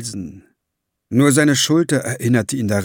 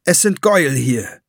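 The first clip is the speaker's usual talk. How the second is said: higher, certain announcement; without doubt; 4 semitones higher, 4 dB louder than usual. A narrator's reading. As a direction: state it with no trace of doubt. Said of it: "nicht die Spur von Zweifel".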